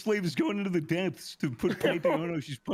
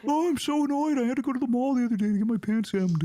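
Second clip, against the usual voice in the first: mock-annoyed goober, higher and quickened; 5 semitones higher, faster than usual. Goober moaning about a mall errand, mock annoyed. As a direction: complain in a silly, higher put-on voice. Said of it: "That voice sounds like somebody who eats sunscreen".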